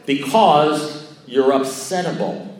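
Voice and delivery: emphatic, drawn-out verdict; mock-endearing insult. Sponsor finally telling him why he's upset, blunt and drawn out. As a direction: deliver the punchline slowly, as if to a dimwit. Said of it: "endearing tones".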